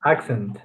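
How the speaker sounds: "Accent" with a K then S in the middle; accent with K sound. Shown as a demonstration. Student trying the word accent, K sound then S. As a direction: say "Accent" as ak-sent. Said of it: "say the first C as a K sound".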